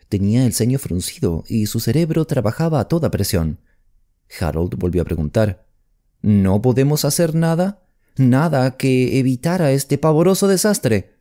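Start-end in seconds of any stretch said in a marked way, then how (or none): 6.2-11.1 desperate question. A narrator's reading. Harold pleads for any way out.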